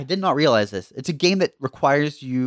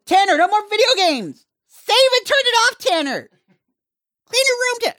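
put-on calling kids to dinner; 3 dB louder than usual. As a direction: call the kid in like a bogan mum. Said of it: "the real, real bogan name".

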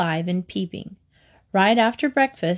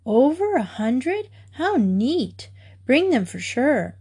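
high, eager delight; excited girl; 4 semitones higher, slower than usual. Acted. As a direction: gasp it out with childish excitement. Mary amazed by hundreds of pictures.

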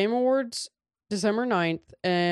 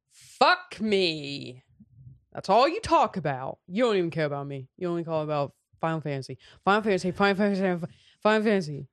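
fast nagging whine; mock nagging partner; faster than usual. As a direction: rattle it off like a jealous partner.

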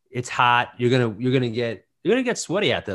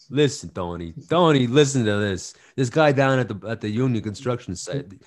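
a hint of a New Jersey mobster, louder; Sopranos mobster voice; 6 dB louder than usual. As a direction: lightly play a Sopranos wiseguy complaining to Tony. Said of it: "A lot of listen on The Sopranos".

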